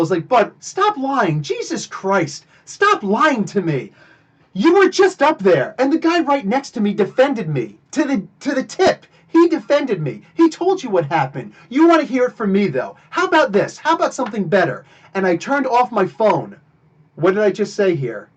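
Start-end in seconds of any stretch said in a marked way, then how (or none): 0.3-3.9 calm, slow, firm rebuke to the guard; slow, deliberate scolding. Retold or imitated. Same line retold again. 4.5-14.8 raised and higher, pressing the guard; heated retold argument. Continuing confrontation, retold.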